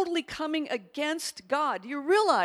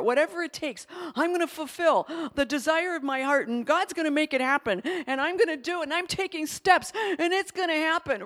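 mock eager striver; 2 semitones higher, 4 dB louder than usual. Mocking a self-driven believer.

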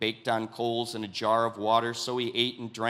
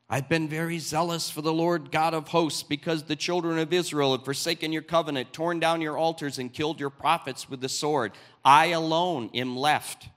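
higher, self-pitying plea; complaining Elijah; 5 semitones higher, 4 dB louder than usual. Acted. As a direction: whine your case to God.

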